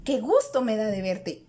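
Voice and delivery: a mild happy exclamation, "gusto" lifted; exclaiming happiness. Shown as a demonstration. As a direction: say it as a glad greeting, lightly. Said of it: "estoy exclamando felicidad". (exclamación alegre, suave)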